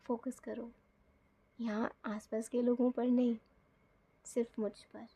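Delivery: soft, loving hush; almost whispered, just for her; said lovingly. Retold or imitated. Husband quietly telling his wife to focus only on him, soft and loving. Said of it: "बहुत प्यार से बोला".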